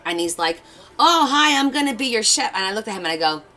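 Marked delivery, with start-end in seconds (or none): 1.0-2.5 high, loud chirpy greeting as the chef. Retold or imitated. Hibachi chef greeting the table, high and chirpy. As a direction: play the cheery chef saying hi.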